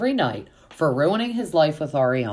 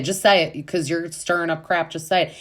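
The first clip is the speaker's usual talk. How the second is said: higher, insistent retold demand; mock challenge; 4 semitones higher than usual. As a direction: imitate someone calling a bluff. Acting out Olivia's confrontation.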